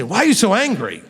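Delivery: mock-offended challenge; accusing reaction. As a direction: mimic someone wrongly feeling attacked. Acted accusing listener's reaction.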